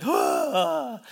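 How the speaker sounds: mock crowd gasp. Preacher imitating the whole crowd at the putt, mock gasp.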